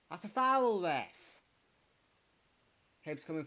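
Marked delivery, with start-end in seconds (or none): 0.1-1.1 much higher, louder appeal; high shout at ref. Real, not acted. Fan shouting at the referee for a foul, high shout. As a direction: yell up at the referee.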